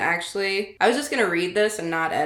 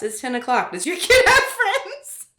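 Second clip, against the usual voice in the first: parody announcer; 12 semitones higher, 6 dB louder than usual. Pretend. Mocking mom's parenting book as a hammed-up ad. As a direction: ham up a parenting ad. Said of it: "That sounds like a book".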